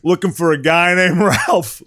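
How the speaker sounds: slow stiff cop line; dumb cop voice. Retold or imitated. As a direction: quote it like the dopey cop. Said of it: "Look at the dialogue they give him".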